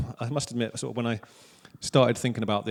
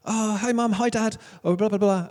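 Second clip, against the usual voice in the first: mocking kids calling home; 9 semitones higher than usual. Other kids phoning parents.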